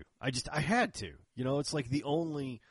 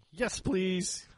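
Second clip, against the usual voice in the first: much higher, chirpy yes please; eager yes; 10 semitones higher, 4 dB louder than usual. Retold or imitated. Customer eagerly answers the holster maker, high and bright. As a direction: chirp it like a delighted kid.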